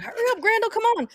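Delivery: high, hurried urging call. Acted. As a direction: hustle the last straggler along. Driver urging last kid off bus.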